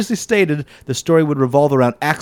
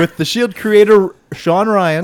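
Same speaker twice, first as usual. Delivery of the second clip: creepy vulture croak; 4 semitones higher, 3 dB louder, slower than usual. Acted. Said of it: "Read it like a vulture".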